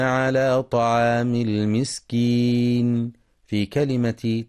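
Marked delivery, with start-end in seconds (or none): 0.0-3.1 Quran recitation. Shown as a demonstration. Quran recitation, tajweed chant.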